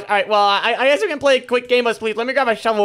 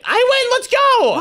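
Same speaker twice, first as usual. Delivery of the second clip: triumphant cheer; 3 dB louder, slower than usual. Real, not acted. Winning the spleef game.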